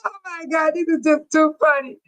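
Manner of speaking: breathless giggly words; laughing. Real, not acted. Host tells her chat they've got her rolling, laughing. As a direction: still wheezing from the laugh. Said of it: "Y'all got me rolling".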